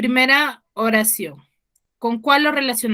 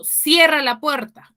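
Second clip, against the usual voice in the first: slow, firm command, a touch higher; teacher to students, demoing an order, slow and firm; giving an order; 4 semitones higher, slower than usual. Shown as a demonstration. Slow firm "cierra la puerta". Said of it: "Estoy dando una orden".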